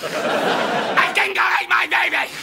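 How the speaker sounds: Meryl Streep. Retold or imitated. Comic repeating a film star's line to mock it, slow Aussie accent. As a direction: drag out a hammed-up Australian accent. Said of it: "nailed the Aussie accent".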